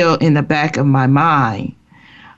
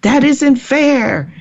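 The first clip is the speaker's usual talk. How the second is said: mild mock scream, pitched up and slow; retold hollering; 10 semitones higher, slower than usual. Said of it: "I'm hollering and screaming".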